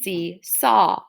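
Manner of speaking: SEE-SAW in separated syllables, open aw ending. Shown as a demonstration. Teacher checking endings with pupils, syllables apart. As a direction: say "Seesaw" in two parts, no L. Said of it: "sounds like there's an L".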